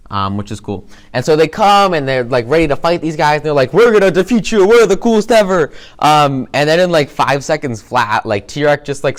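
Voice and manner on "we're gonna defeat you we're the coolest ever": high, loud hammed-up bragging; mock villain boast. Old heroes boasting at the villains, hammed-up loud brag. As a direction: puff it up like a cocky fighter. Villains mocked before quick defeat.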